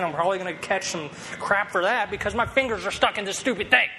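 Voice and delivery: lightly voiced annoyed child; frustrated kid. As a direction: grumble like a kid stuck in a toy. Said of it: "getting more and more frustrated".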